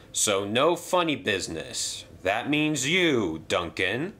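hearty stately controller, pleased then serious; railway boss voice. Acted. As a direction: address the engines like a proud boss. Hatt warns the engines.

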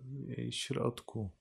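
ordinary delivery

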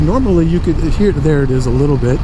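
words shaken as the bike rides rough road; on a bumpy road. Real, not acted. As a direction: voice jolted by bumps on the road. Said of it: "you can hear it in my voice".

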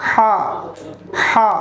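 হা from the middle of the throat; throat sound. Shown as a demonstration. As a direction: push the h of হা out from mid-throat. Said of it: "এটা আমরা হলকের মাঝখান থেকে উচ্চারণ করব". (গলার মাঝখান থেকে হা)

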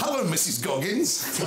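high, drawn-out children's cartoon postman; cartoon postman hailing a neighbour; Postman Pat. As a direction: call out a slow, high cartoon greeting. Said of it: "in the voice of Postman Pat".

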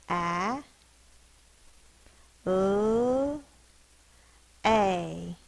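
"A. L. A." as long held sounds: short a, humming l, long A; sounded out. Shown as a demonstration. Teacher taking ballet apart, "A. L. A." one sound at a time. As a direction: stretch each sound of "A. L. A." with wide gaps. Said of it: "Sound it out".

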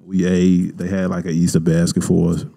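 talking while chewing gum; words around a wad of gum. Real, not acted. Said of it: "Oh, I got this gum in my mouth".

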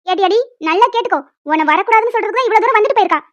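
loud, fast, scolding rant at the daughter-in-law; scolding mother-in-law. Acted. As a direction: tear into her, fast and loud. (மாமியார் மருமகளை சத்தமாகத் திட்டுகிறார்)

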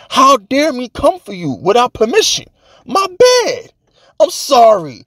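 hammed-up contrition, pitch jumping high; mock apology. Fan begging the general manager's pardon, mock-remorseful. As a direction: plead forgiveness in an exaggerated, high-pitched apology. Over-the-top apology to Joe Shane.

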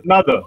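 "Another" with a faint uh, then a strong NUH; stress on second syllable. Shown as a demonstration. Trainer shows teachers the word, stress on second syllable. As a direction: hit NUH in "Another", uh-NUH-ther. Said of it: "Stress is on n".

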